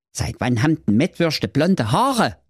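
cartoonish young prince answering his father; dopey prince. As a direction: play the obedient prince, a bit dim. Prince voiced in story.

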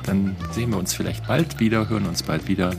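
normal talking voice

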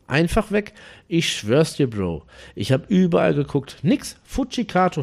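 nachgespielter Anrufer, immer wieder hoch ausbrechend; aufgeregt. Retold or imitated. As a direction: aufgeregt beteuern, mit hochschnellender Stimme. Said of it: "sprach er weiter aufgeregt". (aufgeregtes Beteuern)

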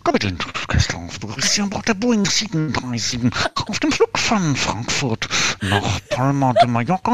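airline captain PA voice; pilot announcement. Retold or imitated. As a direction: play the captain greeting passengers.

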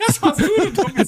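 high squeaky laughing denial; laughing protest. Real, not acted. To friend who blames him, high laughing protest.

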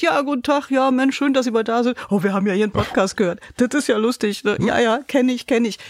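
leicht höherer, freundlicher Smalltalk des Vertrieblers. Retold or imitated. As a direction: den Kunden gut gelaunt begrüßen. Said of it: "kommt und sagt". (Vertriebler begrüßt den Kunden fröhlich, leicht höher)

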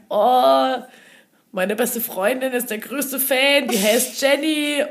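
high, drawn-out fan gushing. Retold or imitated. Fan telling idol about best friend, gushing. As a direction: stretch it out high, re-enacting fan nerves.

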